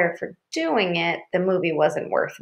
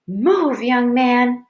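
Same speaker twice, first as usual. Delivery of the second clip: stern order; 4 semitones higher, 4 dB louder, much slower than usual. A narrator's reading. Angry mother orders son to move.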